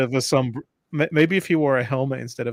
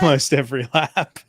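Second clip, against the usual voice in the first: louder, laughing through it; laughing repeat; 5 dB louder than usual. Shown as a demonstration. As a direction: say it again, cracking up.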